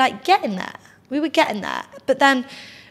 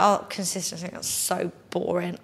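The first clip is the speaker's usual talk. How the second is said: mock bored; 3 semitones lower, 6 dB quieter than usual. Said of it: "I used to be like".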